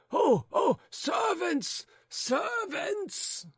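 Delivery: very high, fussing then shouting; fuss, then shout for servants; frantic old gentleman. A narrator's reading. Old husband fussing over his wife, then shouting for servants.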